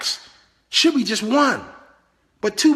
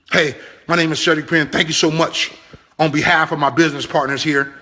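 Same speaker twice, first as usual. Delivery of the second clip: lightly voiced meeting host, lower and smooth; mock MC welcome; 4 semitones lower than usual. Local MC welcoming guests to a business opportunity, lightly imitated host. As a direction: play the local MC opening the room, lightly. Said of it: "opens the room".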